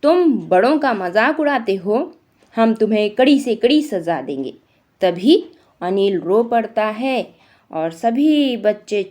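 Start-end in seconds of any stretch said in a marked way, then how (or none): 0.0-4.5 a touch of stern anger; mild anger. Acted. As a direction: judge scolding, mildly cross. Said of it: "कहती है गुस्से में".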